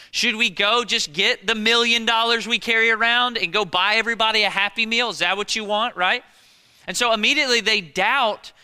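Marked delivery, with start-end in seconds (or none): 0.1-5.9 loud, mocking disciples scoffing at Jesus; borderline sarcastic. Disciples scoffing at Jesus, loud and sarcastic. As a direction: scoff it back at him, louder. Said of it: "borderline sarcastic response".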